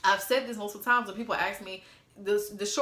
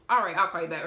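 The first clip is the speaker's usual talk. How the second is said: said fast, in a hurry to hang up; quick brush-off; 3 semitones lower, 4 dB louder, faster than usual. Retold or imitated. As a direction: rush the goodbye out. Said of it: "I said it fast".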